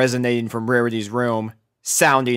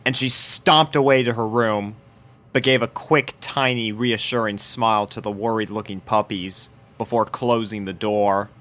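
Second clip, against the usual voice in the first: usual speaking voice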